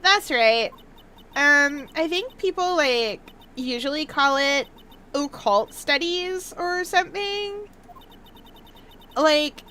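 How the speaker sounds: put-on chatty Valley Girl accent; breezy Valley Girl explaining. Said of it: "do a Valley Girl accent".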